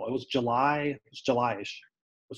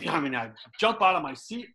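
normal talking voice

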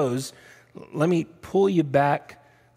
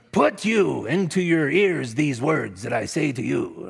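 Yoda. Pretend. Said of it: "can't you hear Yoda saying that".

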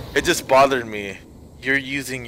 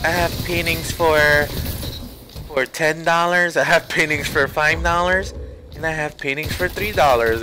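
imitating a little girl, much higher; little girl's voice; 5 semitones higher than usual. Little girl offering her paintings on the train, higher mock child voice. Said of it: "and she's like".

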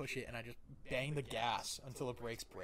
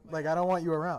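higher, loud brush-off; mildly heated mock telling-off; retold angry dismissal; 4 semitones higher, 13 dB louder than usual. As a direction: push them away in a re-enacted argument. Retold sending the cop away.

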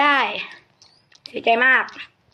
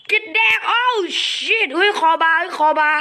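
high cartoon squeak, whole line up high; chipmunk-high mocking voice; squeaky character voice; 6 semitones higher than usual. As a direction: play a tiny squeaky creature.

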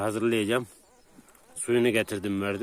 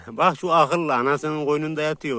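laughing; 4 semitones higher than usual. Real, not acted. Shepherd laughing at the puppy sleeping by its mother. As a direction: chuckle at the clever pup.

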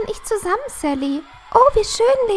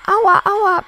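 pained ouch; 5 dB louder than usual. Acted. Girl hurt by bully.

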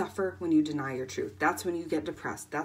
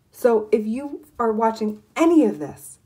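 much louder, grabbing the viewers; urgent call out; 4 semitones higher, 11 dB louder than usual. Real, not acted. Coach urging viewers to stop, loud and urgent. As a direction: call the audience to attention.

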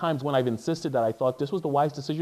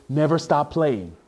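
1 mock ad tagline; 4 dB louder, slower than usual. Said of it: "the tagline is".

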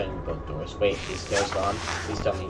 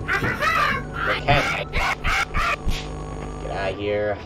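game character voice; 3 semitones lower, much slower than usual. Real, not acted.

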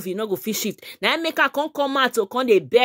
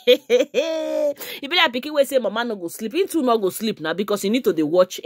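laughing through words. Real, not acted. Vlogger joking to fans, laughing while talking. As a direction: chuckle your way through the joke.

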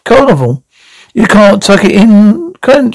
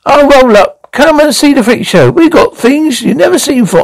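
higher-pitched sideshow patter; freak-show barker; 3 semitones higher than usual. Acted. Showman restarting the freak show from the top, higher barker's patter. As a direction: hawk the show to passers-by.

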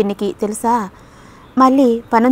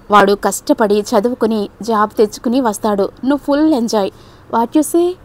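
mischievous. Acted. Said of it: "కొంటిగా కళ్ళెగరేసింది".

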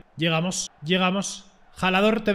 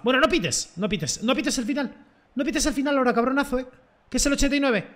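pleading; 4 semitones higher than usual. Real, not acted. Pleading with referee not to end.

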